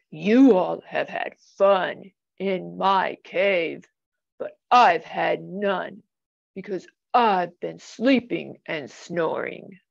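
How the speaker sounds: a lightly voiced grumpy bear, feeling left out; sad bear. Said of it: "Bear said".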